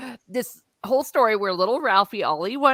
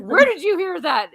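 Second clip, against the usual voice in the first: mock stern mom; 8 semitones higher, 5 dB louder than usual. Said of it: "he's like".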